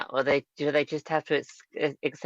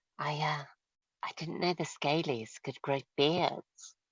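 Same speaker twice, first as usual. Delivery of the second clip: soft, hushed whisper spoken aside; 8 dB quieter than usual. Nudging another character as others head off, whispering to him. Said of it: "I'm gonna whisper to him".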